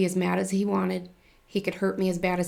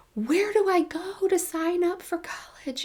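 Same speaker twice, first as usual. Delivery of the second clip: very high, frantic, drawn-out yelling; 11 semitones higher than usual. Retelling running up to someone in a parking lot, retelling a yell. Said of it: "I was yelling at them".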